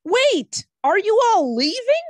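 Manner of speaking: high, loud and frightened; panicked high cry. Acted. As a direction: plead in alarm as they leave. Shrub panics as party leaves.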